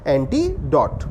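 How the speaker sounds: "एंटीडोट" in two parts, gap after "एंटी"; word split in two. Shown as a demonstration. Teacher repeats the answer for students, "एंटीडोट" broken in two.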